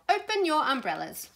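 teacherly high-pitched call. A narrator's reading. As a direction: call out to the whole group. Teacher calls to children in story.

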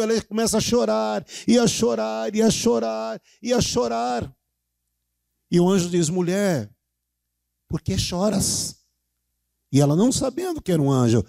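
impassioned Bible retelling, projected to the congregation; fervent preaching. Acted. Preaches the resurrection story loudly.

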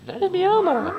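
very high, put-on voice; teasing the zombies in a silly falsetto; mock swooning voice.

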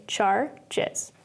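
"char, jez" split in two, weight on "char"; stress on first syllable. Shown as a demonstration. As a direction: stronger "char", then a weaker "jez" after a break. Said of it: "you can hear it in my voice".

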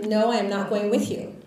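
retold firm refusal. Patient refusing the paramedics, adamant. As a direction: imitate a patient firmly refusing, each word punched.

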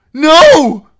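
very high, loud terrified squeal. A narrator's reading. Captive about to be hanged, squealing loudly. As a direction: squeal in panic. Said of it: "Merritt squealed loudly".

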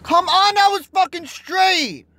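high, slow exasperated yell; frustrated yell. Real, not acted. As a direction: plead angrily with the game. Raging at failed throw.

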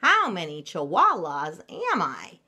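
loud, swooping puzzled question; wondering aloud. Acted. Kitty boy puzzled at his reflection, wondering aloud. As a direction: wonder it out loud with big storybook emphasis. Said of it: "he wondered out loud".

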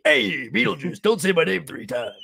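a lightly voiced Michael Keaton line; light Beetlejuice-era Keaton voice; Michael Keaton impression. Host slips from Arnett into Keaton, lightly voiced. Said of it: "I'm trying to do a Will Arnett, but I'm actually".

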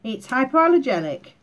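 hoarse from a lingering cough; rough, croaky throat. Real, not acted. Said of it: "please excuse my croaky voice".

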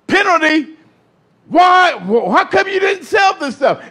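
lightly acted protest, pitched high; objecting referee. Preacher voices disciples calling foul on Mary, mock protest. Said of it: "Judas and Peter and them".

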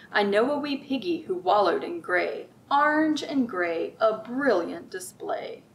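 sing-song picture book read-aloud; lilting, rhythmic storybook voice; reading to children. Acted. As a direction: read it like storytime for little ones.

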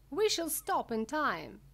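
high, loud call to the group. A narrator's reading. Wonka answering Veruca, calling out high and loud. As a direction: call it back to them loudly. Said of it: "called out Mister Wonka".

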